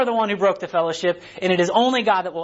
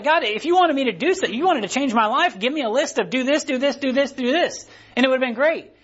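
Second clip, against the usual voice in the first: mock-angry complaint, higher in pitch; worked-up protest, pitched up, not shouted; Naaman; 6 semitones higher than usual. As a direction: imitate an indignant man griping at God. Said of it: "He's mad".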